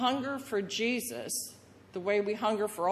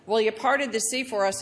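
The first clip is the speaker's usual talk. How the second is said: wilderness whiner; 4 semitones higher, 5 dB louder than usual. Retold or imitated. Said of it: "the wilderness whiner says".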